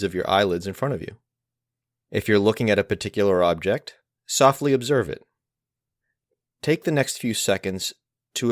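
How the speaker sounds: unhurried guided meditation with long pauses; guided mindfulness. Acted. Teacher leading listeners through each of the senses, guided mindfulness. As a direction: guide gently, phrase by phrase, leaving space to notice.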